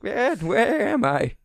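slow, high, groggy confusion; just woke up, lost and slow; dazed Santa. Retold or imitated. Santa waking confused, voiced.

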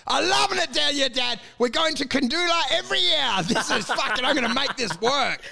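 high-pitched, carried-away declaration; giddy enthusiasm. Acted. Traveller suddenly loving it down here, giddy and high. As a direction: gush it like someone suddenly smitten.

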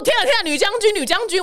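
high teasing exclamation; mock awe. Friends teasing the host as a general, high mock awe. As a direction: gasp out the nickname in mock alarm.

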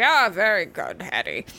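lightly voiced approving dad; father's voice. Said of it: "And he'd be like".

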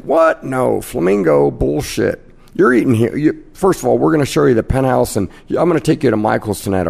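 insistent casino host. Retold or imitated. Casino host wooing a big gambler at the dice table, insistent. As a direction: imitate a host brushing off the competition.

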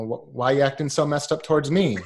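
lightly mimicked puzzled model guy; Zoolander quote. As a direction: toss the line back half-joking, barely acted. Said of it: "like in Zoolander".

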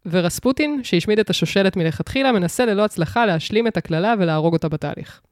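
measured storytelling read of a prepared summary; synopsis read-out. Acted. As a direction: read it out like a film blurb. (הקראת תקציר מוכן)

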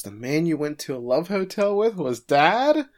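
mock-shocked daughter, pitch climbing on the question. Daughter learns the man was her dad, acted shock. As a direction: imitate a scandalized reaction. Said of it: "Ron's shocked".

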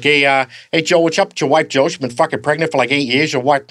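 goofy Family Guy dad teasing his neighbour; Peter Griffin impression. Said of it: "he's always like".

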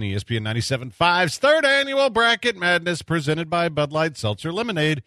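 brisk radio ad read. Acted. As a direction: sell it like a radio spot. Reads ad copy.

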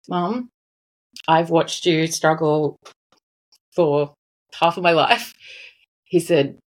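choked-up, halting retelling with long pauses; real emotion breaking up the phrases; getting emotional. Real, not acted. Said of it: "Sorry, I'm getting a bit emotional".

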